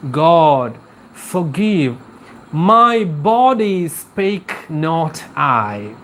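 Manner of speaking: deliberate, drawn-out verse reading; measured poetic prayer; poem recitation. Acted. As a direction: recite the plea phrase by phrase. Reciting the poem's prayer aloud.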